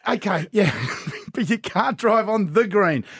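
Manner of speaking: father giving in to laughter while repeating the rule; laughing dad. Retold or imitated. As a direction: hold back laughter while correcting. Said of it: "I went".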